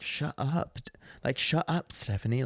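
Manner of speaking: softly urgent aside; imitated hushing friends. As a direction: shush a friend under your breath. Friends hushing the drunk heckler.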